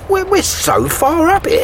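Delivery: high, slow and shaky with fear of the height; nervous. Acted. Contractor on the scaffold, frightened of the height. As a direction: stammer it out, scared of looking down. Scared on high job site.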